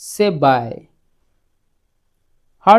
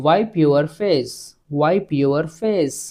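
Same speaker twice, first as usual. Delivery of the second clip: slow teaching demo; slower than usual. Shown as a demonstration. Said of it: "ಇಂಗ್ಲಿಷ್ನಲ್ಲಿ ನಾವು ಈ ರೀತಿ ಹೇಳ್ಬೇಕು".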